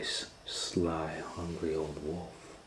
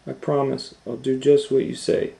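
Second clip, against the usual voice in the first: put-on little girl voice; 8 semitones higher, 9 dB louder than usual.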